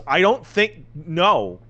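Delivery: high, mock-incredulous kid's retort; high-pitched retold protest; exasperated retort. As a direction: imitate an exasperated kid pushing back. Retold child rebuffs the agent.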